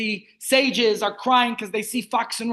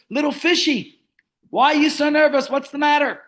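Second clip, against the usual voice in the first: a lightly raised, coaxing fox voice; sly fox; 4 semitones higher, 4 dB louder than usual. Acted. Rabbi voicing the fox to the fish, lightly sly and coaxing. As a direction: sweet-talk the little fish like a sly fox.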